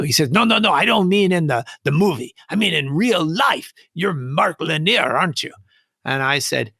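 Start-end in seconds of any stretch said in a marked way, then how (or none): 0.3-5.5 mildly imitated Hispanic accent, higher; retold Hispanic-accented correction. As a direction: insist in a light Hispanic accent. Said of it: "a Hispanic accent".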